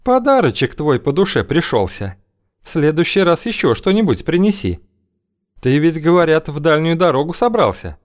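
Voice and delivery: high, sly woman's voice. Acted. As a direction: purr it, way up high. Feodosia's voice held.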